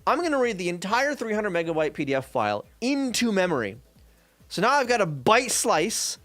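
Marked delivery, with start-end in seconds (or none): 0.0-3.8 high eureka voice, pleased with itself; sudden clever idea; excited idea. Retold or imitated. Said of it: "So I'm like".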